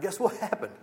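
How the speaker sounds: bright, eager, pitched high; excited. Retold or imitated. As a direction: relay the caller's excitement with a lift. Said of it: "He's all excited".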